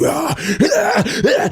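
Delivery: mock anguished cries. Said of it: "he acts it".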